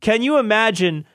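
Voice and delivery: a clumsy stab at Pacino; terrible Al Pacino. Retold or imitated. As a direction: botch an Al Pacino voice on purpose. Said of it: "That was a terrible Al Pacino".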